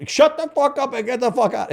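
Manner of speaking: high-pitched mock yell of an old-school Italian boss; imitated yelling. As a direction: cut in, yelling and swearing. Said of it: "this guy would yell and swear".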